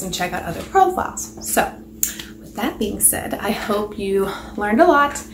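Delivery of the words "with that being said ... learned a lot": breathing heavily while talking; winded, heavy breaths between words. Real, not acted. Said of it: "I'm out of breath".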